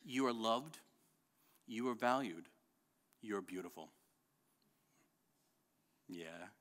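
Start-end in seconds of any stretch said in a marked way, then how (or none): 0.0-3.9 tender father. Shown as a demonstration. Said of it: "I'll tell them this".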